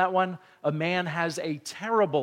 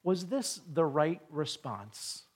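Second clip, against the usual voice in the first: gentle question; slower than usual. Acted. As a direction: ask instead of blast, slowly. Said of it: "but instead he asks him".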